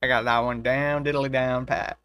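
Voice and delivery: a hammed-up Southern accent with a drawn diddly. Shown as a demonstration. Proving her Southern accent to her friend, hammed-up Southern. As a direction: show off the Southern accent, playful. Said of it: "Except for my southern accent".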